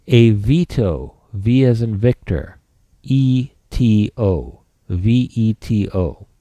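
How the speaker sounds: slow, spelled out letter by letter; dictating. Shown as a demonstration. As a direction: spell it out slowly for notes. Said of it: "Write this down".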